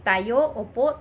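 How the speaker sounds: hyperactive demo. Shown as a demonstration. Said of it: "nagiging hyperactive si patient".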